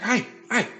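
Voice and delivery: high, called-out greeting from across the street; imitated holler. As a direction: mimic a stranger hollering a friendly hi. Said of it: "he starts hollering at me".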